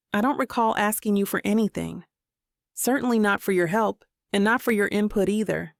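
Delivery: short, clipped refusal; mildly curt reply. Acted. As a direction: cut him off coldly. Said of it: "It's curter than my usual".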